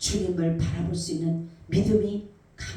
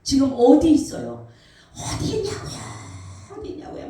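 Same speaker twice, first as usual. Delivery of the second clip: high shout breaking into breathy rasp; re-enacted anguished yell, losing voice; desperate crying out; 6 semitones higher, 6 dB louder than usual. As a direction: cry out as if searching for God. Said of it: "그 가슴을 치면서 막 제가 찾고".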